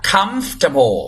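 "comfortable" squeezed to "KUMF-tuh-bo"; correct pronunciation. Shown as a demonstration. Teacher modelling the word for students, correctly pronounced "comfortable". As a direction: stress the first syllable of "comfortable", swallow the "or". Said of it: "ออกเสียงว่า".

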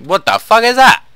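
loud, high startled swear; shocked outburst. Real, not acted. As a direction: jolt back in shock and blurt it out. Player spots grisly sign.

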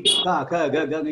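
"kha, kha, nga" buzzing in the throat; throat vibration. Shown as a demonstration. Teacher showing the vibration to pupils, throat sounds. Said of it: "Here vibration will be there".

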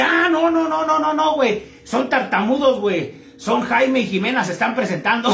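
a doorman answering high and casual, laughing at the end; amused doorman. Acted. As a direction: explain it lightly like a bouncer in on the joke. Doorman explains the laughing couple. (portero que explica con risa, voz más aguda)

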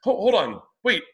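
high, rising confused question; baffled protest. Retold or imitated. Man confused by the neighbor's accusation, high disbelief. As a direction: stop her in disbelief. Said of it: "And I go".

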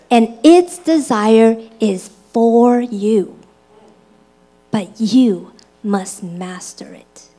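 slow, measured Bible reading; solemnly paced reading from the pulpit; scripture reading. Acted. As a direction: read scripture out deliberately, weighting each phrase. Reads scripture aloud to congregation.

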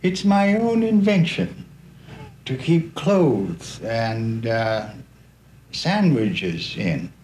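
lightly voiced friendly old knight; White Knight. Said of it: "said in a friendly tone".

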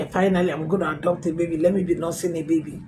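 quick, quiet rush of retold joy; retold excitement. Woman alone in her room, quietly thrilled, fast. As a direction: gush it fast like an eager new mother. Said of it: "I was so excited".

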